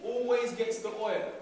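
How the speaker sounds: slow and deliberate, each word spaced out; teacher calling out a line for the class to echo; slow call for repetition. Shown as a demonstration. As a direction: lead the class to repeat it back. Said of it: "Repeat after me".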